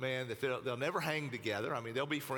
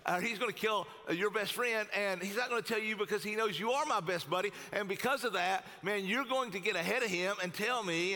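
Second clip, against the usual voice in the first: high-pitched, insistent rebuttal; incredulous arguing; 5 semitones higher than usual. Acted. David rebuts his bestie Jonathan's reassurance, incredulous. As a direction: argue it urgently, pitched up.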